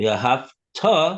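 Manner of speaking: v'ahavta with stress on the last syllable. Reading the first paragraph aloud, stress on last syllable of v'ahavta. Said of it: "with the emphasis on the the the tough at the end of the the word v'ahavta".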